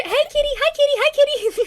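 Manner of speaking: high, sweet calling to a cat; sing-song come here kitty; coaxing kitty voice. Acted. Player coaxing cat character.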